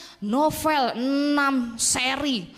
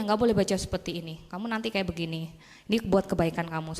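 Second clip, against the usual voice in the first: retold gentle admonishing; 5 semitones lower than usual. Teacher admonishing student over novels.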